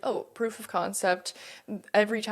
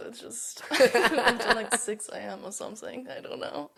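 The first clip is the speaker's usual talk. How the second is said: put-on German accent. Guest keeps up the German accent bit, laughing through it. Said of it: "the German accent has a grip on me".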